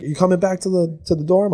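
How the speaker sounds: high mock girl voice; imitated girl. Imitating girls on the phone.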